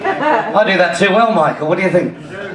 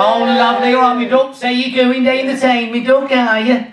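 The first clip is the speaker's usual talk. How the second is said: put-on local Northampton greeting; Northampton accent. Comedian greeting the local crowd, mock Northampton accent. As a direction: lay on Northampton dialect.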